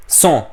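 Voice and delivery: "sont" with a clear s sound; liaison z sound. Shown as a demonstration. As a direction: say "sont" starting on a crisp s. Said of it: "आप हमेशा ये sound को बोलोगे स".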